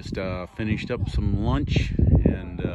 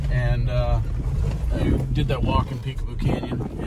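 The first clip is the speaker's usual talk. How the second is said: loud, raised voice over engine noise; shouting over road noise; 5 semitones higher, 12 dB louder than usual. Real, not acted. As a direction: project over the car noise. Talking in car over road noise.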